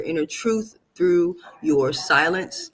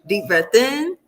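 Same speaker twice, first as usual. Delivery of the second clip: breathing cue; 6 semitones higher, 3 dB louder than usual. Shown as a demonstration. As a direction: lead the breath calmly. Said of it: "leads breathing exercise".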